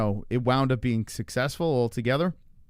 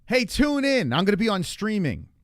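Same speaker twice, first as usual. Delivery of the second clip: high, loud hammy announcer; higher, louder mock promo voice; 6 semitones higher, 3 dB louder than usual. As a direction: ham up a stiff promo. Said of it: "Who says that".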